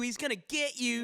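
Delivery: high, loud menacing horror taunt; spooky voice. Acted. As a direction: tease like a slasher villain. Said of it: "wasn't gonna do a spooky voice".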